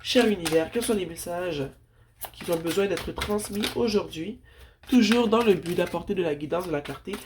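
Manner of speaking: prayer voice. Acted. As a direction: call on the ancestors reverently. Calls on ancestors and universe.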